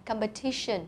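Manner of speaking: competition said "com-pe-TI-tion", soft and careful; stress on the third syllable. Shown as a demonstration. Teacher points out the stressed syllable to pupils, careful stress. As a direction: hit TI in competition. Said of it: "trọng âm và âm này".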